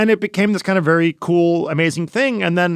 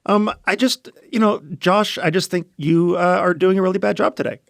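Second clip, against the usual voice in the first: lightly put-on higher voice; a hint of imitating an absent co-host; higher, hesitant mock critique of the host; Nicole; 4 semitones higher than usual. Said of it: "do your best Nicole impression".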